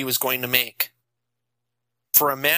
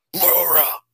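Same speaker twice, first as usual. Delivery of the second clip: called name, pitched up; father calling his daughter as she leaves, pitched up; scream; 5 semitones higher than usual. A narrator's reading. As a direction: cry out after the daughter. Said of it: "Matt screamed".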